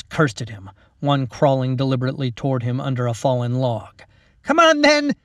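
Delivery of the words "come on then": high, loud cracking yell; shout. A narrator's reading. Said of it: "Mac shouted".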